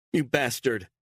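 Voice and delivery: high, loud insult; disarmed woman lashing out, furious; furious cry. Acted. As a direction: spit it at him. Beatrice disarmed, gun to head.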